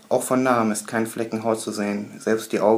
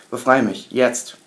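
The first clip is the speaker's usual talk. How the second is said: forceful demand; 5 dB louder, slower than usual. Acted. Captor demanding release.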